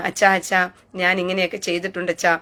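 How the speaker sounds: lightly played penitent begging forgiveness; mock confession. Mocking a sinner confessing to the priest, hushed. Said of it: "പള്ളിയിൽ അച്ഛൻ്റെ അടുത്ത് പോയിരുന്നിട്ട് പറയത്തില്ലേ".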